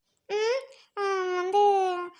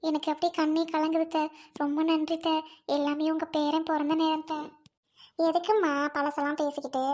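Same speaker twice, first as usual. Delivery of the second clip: lightly voiced older mother-in-law, a bit lower; a hint of a fond, fussing mother-in-law; mother-in-law pampering her daughter-in-law, lightly voiced; doting mother-in-law; 3 semitones lower than usual.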